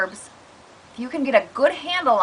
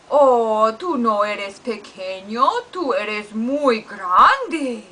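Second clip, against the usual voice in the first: comforting dog; much slower than usual. Acted. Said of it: "we would sound like this".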